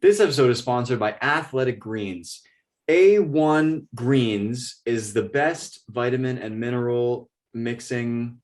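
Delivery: hammed-up sponsor read, drawn out slowly toward the end; mock ad read. Host pitching pretend sponsor to friends, announcer-like. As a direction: sell it like a pretend podcast advert.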